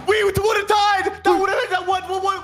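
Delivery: high, jumbled "would have" tumbling out; garbled babble. Real, not acted. Player protests a near tie, garbled babble. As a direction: stumble over "what, what" in a high garble. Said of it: "I don't speak enchantment table".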